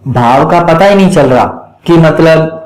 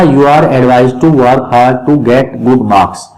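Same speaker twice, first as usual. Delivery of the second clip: slow, even word by word reading; slow dictation; 4 semitones lower, much slower than usual. Shown as a demonstration. Teacher dictating the converted sentence slowly to students. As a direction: give it slowly so they can write it. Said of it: "teacher dictating the answer".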